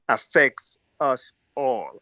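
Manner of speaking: slow, with all hit hard; stress on ALL. Real, not acted. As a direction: lean slowly into the word all. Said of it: "I emphasize the word all".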